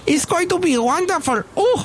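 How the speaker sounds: high, affected grand-lady voice; Madame Rutabaga. Pretend. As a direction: gush like a grand society madam. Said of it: "Madame Rutabaga".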